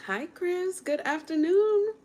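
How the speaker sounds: high, slow sing-song hello; bright greeting. Real, not acted. Guest greets host Chris on air, high sing-song hello.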